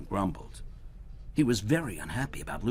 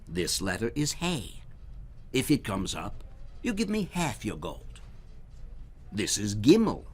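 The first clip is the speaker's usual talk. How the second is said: Herschel explaining; 3 semitones higher than usual. Acted. Herschel teaches the goblin the dreidel rules, sly. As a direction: lay out the rules with a crafty grin.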